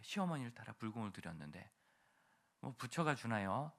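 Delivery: normal talking voice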